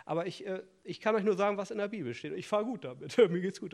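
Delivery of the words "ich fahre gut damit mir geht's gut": flippant. Real, not acted. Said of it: "ich bin ein bisschen flapsig hier".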